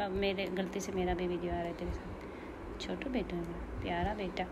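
tender. Real, not acted. Soft cooing to bird.

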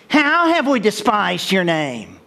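mildly insolent, slow question; cocky attitude. Acted. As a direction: drag it out with a touch of attitude. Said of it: "Cocking an attitude again".

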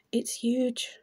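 breathy hushed repeat; playful stage whisper; whispered aside. Pretend. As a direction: drop to a secret whisper.

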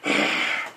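hoarse, voiceless growling exhale; heavy rasped sigh. Acted. Batman pauses before signing off, raspy growled sigh. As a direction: breathe out hard in the Batman rasp.

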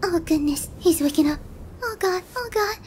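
loud, urgent alarm; startled, loud fretting; flustered panic. Acted. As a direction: panic as you're about to be caught. Captive starts waking, she panics.

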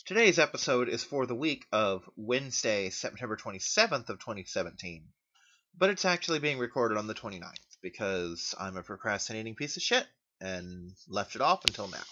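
talking while lying on back; speaking flat on your back. Real, not acted. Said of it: "if I sound different, it's 'cause I'm laying down".

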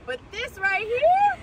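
talking while chewing; muffled through food; mouth full of burger. Real, not acted. Seen 0: Bites and chews the burger throughout the labelled words.

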